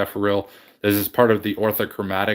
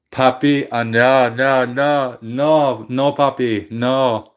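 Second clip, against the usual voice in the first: sharp, louder no no no to the dog; firm raised voice calling the pet off; scolding a pet; 3 semitones higher, 5 dB louder, much slower than usual. Real, not acted. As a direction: stop the pet in its tracks. Telling off a pet mid-stream.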